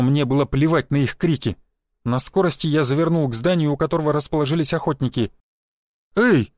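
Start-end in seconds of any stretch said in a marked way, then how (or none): 6.2-6.5 very slow, stretched, higher-pitched cry; drawn-out call. A narrator's reading. Man calls after the runner racing off, voice stretched out. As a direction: stretch each vowel like a voice smearing away. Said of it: "расплылся голос Шишакова".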